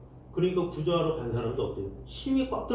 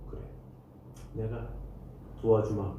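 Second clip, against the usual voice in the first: lower, calm promise of help; voice of God; 6 semitones lower, 5 dB quieter than usual. Retold or imitated. Preacher voicing God answering the exhausted, low and calm. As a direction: speak as a gentle God. God's voice in sermon.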